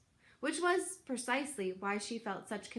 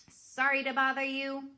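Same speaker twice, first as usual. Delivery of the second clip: friendliest voice; 4 semitones higher, 4 dB louder than usual. Acted. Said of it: "in her friendliest voice".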